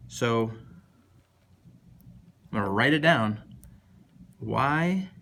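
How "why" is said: higher, drawn-out, overdone lament; mock dramatic. Shown as a demonstration. Teacher hamming up a question to the class, mock dramatic. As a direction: sigh it out like a tragic actor. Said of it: "That's an exciting way to say it".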